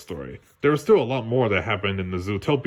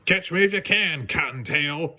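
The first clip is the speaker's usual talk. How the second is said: mild taunting holler; 4 semitones higher than usual. Acted. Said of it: "he hollered back".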